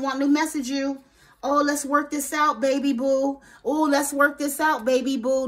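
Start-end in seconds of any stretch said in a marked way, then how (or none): 1.4-5.5 hammed-up lover's plea; mock sweet-talk. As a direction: imitate the ex sweet-talking to win you back. Ex's wheedling message voiced.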